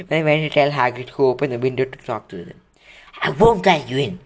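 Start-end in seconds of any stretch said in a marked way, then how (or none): 3.2-4.2 puffing. Acted. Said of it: "he puffed".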